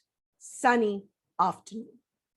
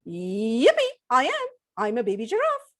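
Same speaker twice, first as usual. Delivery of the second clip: put-on baby giraffe. Giraffe answers, high voice.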